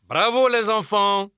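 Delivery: enthousiaste et encourageant, plus aigu et plus fort; féliciter de jeunes élèves avec entrain; kindergarten teacher voice. Acted. Félicite les enfants en classe. (voix de maîtresse de maternelle)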